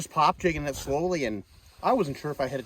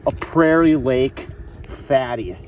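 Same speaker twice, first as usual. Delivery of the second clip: excited; 7 dB louder, much slower than usual. Real, not acted. Showing off the fish.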